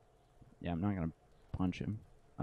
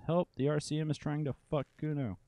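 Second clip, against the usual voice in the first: yelled at top of lungs; 7 semitones higher than usual. Acted. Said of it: "yells from the top of his lungs".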